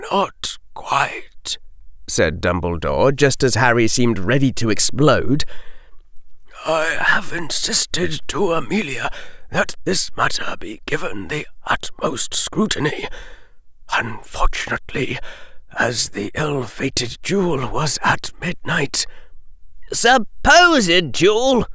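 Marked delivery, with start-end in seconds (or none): 0.1-1.6 soft breathy whisper. A narrator's reading. Dumbledore whispers. 6.6-19.1 put-on soft, breathy old headmaster; hushed elderly headmaster delivering bad news; hushed Dumbledore. A narrator's reading. Dumbledore voiced.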